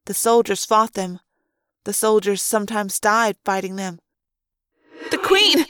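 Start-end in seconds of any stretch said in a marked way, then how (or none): 5.1-5.6 high, urgent thought-voice; Rachel. A narrator's reading. Rachel urges her friend about the Queen, urgently. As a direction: call out a command mind to mind. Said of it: "Rachel's voice said".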